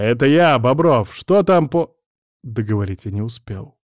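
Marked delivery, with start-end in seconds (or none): 0.0-2.0 shouting. Acted. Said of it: "крикнул я".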